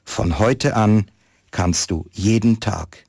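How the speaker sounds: calm storyteller reading a Christmas tale; story narration. Acted. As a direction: read it like a story to listeners. Reads a Christmas story aloud. (Weihnachtsgeschichte vorlesen, ruhig erzählend)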